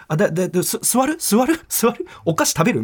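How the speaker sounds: high, hurried worried hostess voice; flustered offer. Retold or imitated. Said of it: "みたいな". (泣く客を気づかう奥さんと娘さんの、高く慌てた声)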